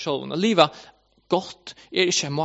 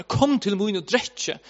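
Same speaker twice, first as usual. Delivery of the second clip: slow, higher-pitched retold call; 4 semitones higher, slower than usual. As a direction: mildly imitate someone calling an invitation. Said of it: "Jesus sänder och ropar".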